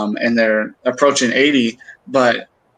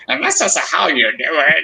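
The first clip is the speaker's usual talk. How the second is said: lightly imitated Texan-Scottish accent, slightly higher; East Texas Scottish accent; 4 semitones higher than usual. Son imitates mom teaching drawing, East Texas Scottish accent. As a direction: mimic a mom's East Texas Scottish twang. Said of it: "has this East Texas Scotland accent".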